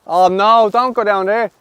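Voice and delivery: rising high, begging it not to roll away; loud, high groaning plea, then a laugh; pleading with the ball. Real, not acted. Player begging his ball not to roll down, high plea.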